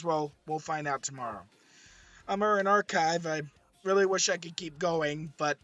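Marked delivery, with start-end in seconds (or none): 2.3-5.6 hoarse, worn-out voice. Real, not acted. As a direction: voice giving out, hoarse and strained. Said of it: "as you can hear".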